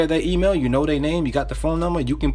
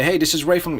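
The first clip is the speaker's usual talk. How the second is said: upbeat, higher-pitched sales greeting; enthusiastic; 5 semitones higher than usual. Shown as a demonstration. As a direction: open the cold call with real energy. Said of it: "you gotta say this with enthusiasm".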